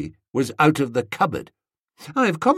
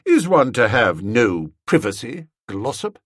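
cold. Acted. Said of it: "I said coldly".

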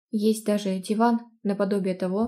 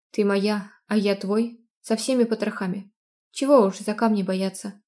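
sincere declaration; 3 dB louder than usual. Acted. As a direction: declare love with gravity.

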